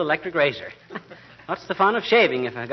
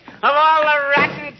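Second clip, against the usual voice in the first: much higher, louder grumbling blast; exasperated outburst; 10 semitones higher, 5 dB louder than usual. Acted. Husband fuming to his wife over a ruined letter, exasperated outburst. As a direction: blow up in disgust at the mess.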